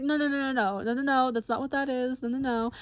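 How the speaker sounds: quick string of mock-urgent denials; retold urgent reassurance. Boyfriend correcting the tongue scare, urgently reassuring. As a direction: imitate someone hurrying to correct a panic.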